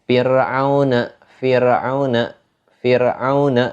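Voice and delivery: Fir'auna repeated with thin r. Shown as a demonstration. Teacher drilling tarkik, thin ro in Fir'auna. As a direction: model Fir'auna evenly, keeping the r light. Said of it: "dibaca tipis".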